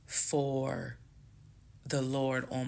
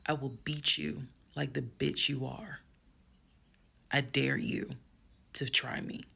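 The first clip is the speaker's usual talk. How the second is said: level, measured retold threat; calm threat. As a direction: deliver the threat calmly, pausing between phrases. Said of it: "calmly got close to him".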